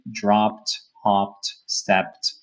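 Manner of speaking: "Dropped", "hopped", "stepped" with a crisp, audible final t; strong ending. Shown as a demonstration. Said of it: "have a strong ending".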